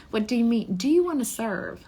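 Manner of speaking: a loud, high, worked-up "do you wanna serve?"; incredulous challenge. Real, not acted. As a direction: push back on the idea with indignant energy. Challenging the audience after laughing.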